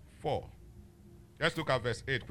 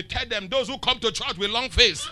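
louder, laughing delivery; laughing quote; 2 semitones higher, 6 dB louder than usual. Retold or imitated. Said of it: "God Spirit say".

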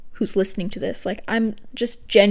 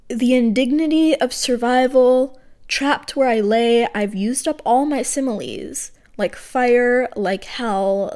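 measured recital, each phrase set apart; poem reading. Acted. Poet reading her unfinished draft to listeners, measured poem voice. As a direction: read it as a draft poem, letting line ends drop.

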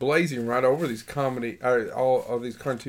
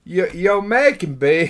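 put-on Australian accent; 3 semitones higher, 5 dB louder than usual. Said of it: "See, I can't do it".

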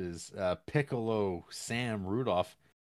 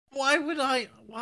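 laughing; 8 dB louder than usual. Real, not acted. Laughing high.

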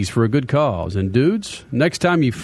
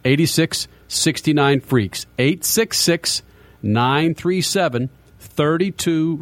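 slow number read; slower than usual. Shown as a demonstration. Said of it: "Here's your phone number".

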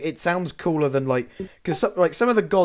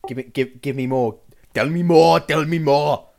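eagerly loud "tell me more"; eager demand; 2 semitones higher, 5 dB louder than usual. Real, not acted. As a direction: beg for more, keen. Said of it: "eager demand for next dinosaur".

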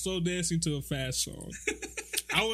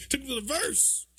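mock R&B ad-lib; 8 semitones higher than usual. Parodying the R&B ad-lib.

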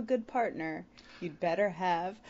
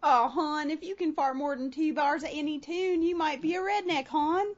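put-on Baltimore accent; 3 semitones higher than usual. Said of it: "it still works for Baltimore".

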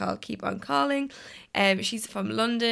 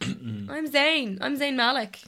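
diva singer impression; 5 semitones higher, much slower than usual. Retold or imitated. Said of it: "he's a real diva".

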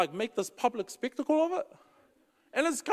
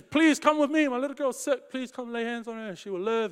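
urgent pleading plea, higher at first; begging; 5 semitones higher than usual. Retold or imitated. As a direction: beg Jesus to come save his little girl. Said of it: "goes over to beg".

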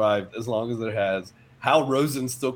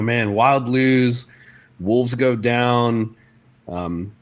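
slow radio host intro. Retold or imitated. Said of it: "he'll be like".

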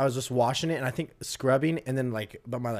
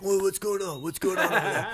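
higher-pitched mock reaction, laughter creeping in; curious instructor imitation; 7 semitones higher than usual. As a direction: play the second instructor coming over, amused.

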